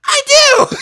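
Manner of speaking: high, loud and slow mock old-lady shout; laughing high granny yell; mimicking Arlene. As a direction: drag it out like a cackling old woman. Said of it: "She's like".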